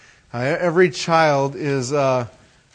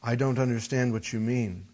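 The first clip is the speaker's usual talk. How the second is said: put-on softer, innocent child's reply; 5 semitones lower, 9 dB quieter than usual. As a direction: play dumb like a small boy. Son's reply voiced in story.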